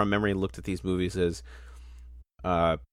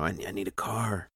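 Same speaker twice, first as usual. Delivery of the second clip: soft flat monotone; Tobey Maguire monotone; 6 dB quieter than usual. Retold or imitated. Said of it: "that Tobey Maguire monotone voice".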